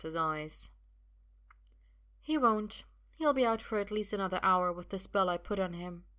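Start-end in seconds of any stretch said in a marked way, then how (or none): 2.2-6.0 a hint of knowing confidence; assured woman. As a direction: state it with calm assurance. Sophia reveals spell.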